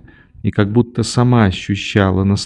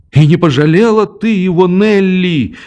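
mild reproachful cry; 8 semitones higher than usual. A narrator's reading. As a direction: scold the girl for her cruelty. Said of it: "вскричал я".

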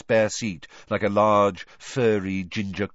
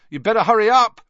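shouted, much higher and louder; calling loudly; 13 semitones higher, 10 dB louder, faster than usual. Acted. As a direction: call after her across the crowd. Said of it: "Ron called loudly after her".

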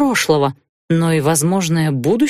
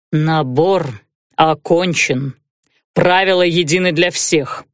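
necromancer; 3 semitones lower, slower than usual. Acted. Necromancer character voice.

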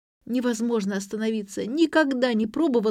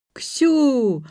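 loud, high happy cry; overjoyed shout; 6 semitones higher, 6 dB louder than usual. A narrator's reading. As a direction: greet her with drunken joy. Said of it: "бурно обрадовался родитель".

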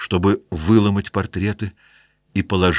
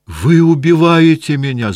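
high, loud anguished cry; 9 semitones higher, 8 dB louder than usual. Acted. Sick wife crying out to her husband. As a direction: scream it out in pain. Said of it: "закричала госпожа Гранде".

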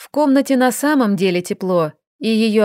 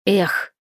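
раздражённый выдох. Acted. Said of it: "раздражённо выдохнула она".

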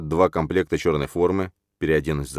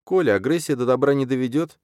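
put-on high calm young woman's voice; calm girl voice; 8 semitones higher than usual. A narrator's reading. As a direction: soothe him in a high, even voice. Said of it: "спокойным голосом продолжает Катя".

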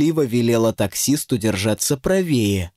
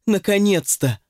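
delighted yell; 7 semitones higher than usual. Acted. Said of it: "заорала в непонятном восторге".

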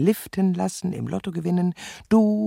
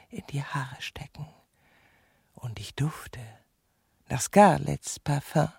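whispered aside; 2 semitones lower than usual. Acted.

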